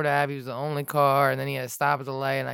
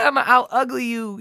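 higher-pitched imitated angry outburst; mock Hulk rage; 8 semitones higher, 4 dB louder than usual. Rider reacting to driver, mock enraged outburst. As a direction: act out an adrenaline-fuelled retort. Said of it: "this Incredible Hulk thing comes out of you".

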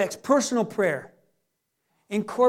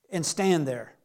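low, softer divine command; voice of God; 7 semitones lower, 5 dB quieter, slower than usual. Acted. The Lord to the eager shopper, low and calm. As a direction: drop low and quiet, as God giving orders.

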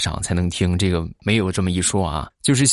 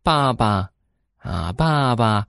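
put-on coaxing a toddler; 4 semitones higher than usual. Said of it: "我就在那儿教她".

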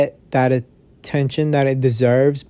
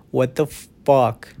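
slow, drawn-out what the fuck in disbelief; slower than usual. Real, not acted. Podcaster stunned by a musician's streaming numbers, slow disbelief. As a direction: let it sink in, slowly. Stunned at five million listeners.

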